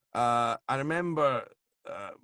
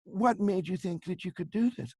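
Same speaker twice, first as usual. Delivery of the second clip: Barbara Walters; 5 semitones higher than usual. Retold or imitated. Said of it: "an interview with Barbara Walters".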